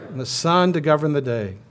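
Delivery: projected responsive reading; a firm call awaiting their response; cantor's call. Pretend. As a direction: lead the congregation through the verse. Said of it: "I'm the cantor".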